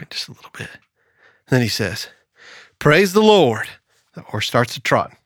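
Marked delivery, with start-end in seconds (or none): 2.8-3.7 raised-pitch praise call; a bit bolder, higher command; firmer second try. Acted. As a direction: lift the pitch to urge the horse on. Preacher's second try, horse trots.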